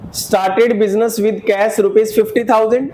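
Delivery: very slow, each word spaced out; teacher dictating the transaction word by word; slow dictation. Shown as a demonstration. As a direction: read it out slowly for the class to write down. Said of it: "पूरा question note down कर लो".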